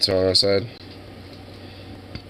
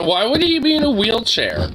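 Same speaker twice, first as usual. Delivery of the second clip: high, slow baffled question; baffled, drawn out; incredulous question; 3 dB louder than usual. Real, not acted. Streamer answers chat in high-pitched bafflement.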